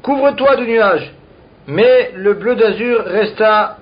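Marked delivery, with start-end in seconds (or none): 0.0-1.1 mild mock cry to the sky; retold cry. Teacher translates the sage's appeal to the sky, understated cry. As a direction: call out gently, retelling rather than shouting. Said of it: "Il a crié".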